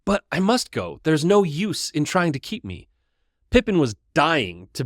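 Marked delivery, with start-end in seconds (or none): 0.0-2.9 higher, insistent protest on must. Acted. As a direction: push back against your friends. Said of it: "Frodo protested".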